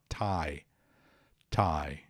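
Thai said like "tie", with silent H; low, falling Thai with an ordinary T; plain T sound. Shown as a demonstration. Teacher extending the rule to the adjective, Thai with plain T. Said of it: "vale também para o adjetivo".

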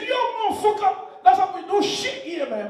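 high, loud mock American girl; hammed-up high, loud outburst. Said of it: "I know American girls, their ringtone is different".

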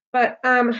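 slow, laughing joke; joking. A narrator's reading. Ware joking to the girl, laughing and slow. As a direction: laugh it off lightly. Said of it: "he joked".

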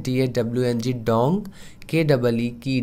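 letters D A W N G then के double E spoken one by one; spelling it out. Shown as a demonstration. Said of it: "नीचे लिखा भी है".

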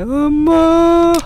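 high, drawn-out startled cry of mom; scared scream. Real, not acted. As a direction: cry out in sudden fright. Startled by the game.

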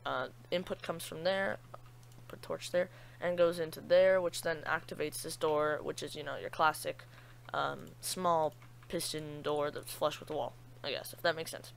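rusty just-woke-up voice; morning voice. Real, not acted. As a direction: sound freshly woken, voice unused. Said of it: "Sorry about my voice, ... extreme morning voice".

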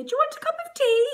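high called-out offer of tea; calling out. Retold or imitated. Mum calling from kitchen to paramedic, high and loud. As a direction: call it through to the other room. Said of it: "she's calling into the lounge".

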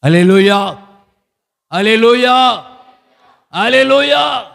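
drawn-out praise cry rising with each repeat; building hallelujah call. Real, not acted. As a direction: call the congregation to praise, climbing in pitch.

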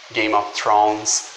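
Thrones with the TH, tongue between the teeth; slow Game of Thrones with a clear TH; English TH. Shown as a demonstration. Teacher models the TH sound, slowly. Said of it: "começando com T H".

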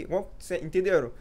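ordinary delivery

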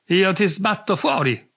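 shouting after him down the corridor; half-hammed drunken yell, pushed up in pitch; shouting threat.

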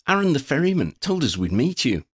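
high, bouncy, chirped voice; chirpy. A narrator's reading. Freddy telling Quinn who sent them, chirpy. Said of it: "Freddy chirped".

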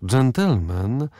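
gentleman drawn out slowly and weighted; old lady lecturing the captain, gentleman said slowly; stressing every word. A narrator's reading. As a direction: lean hard on gentleman. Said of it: "podkreślając każde słowo".

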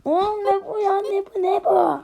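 high, loud disbelieving yell; shocked shout. Real, not acted. Gamer shouting in shock at the game, high and loud.

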